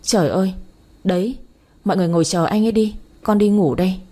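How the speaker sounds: a touch of sharp annoyance, quickening; mild irritated snap. Acted. Fed-up daughter snapping at her waiting family, mildly irritated. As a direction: snap back without really shouting. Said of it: "Tôi gắt lên".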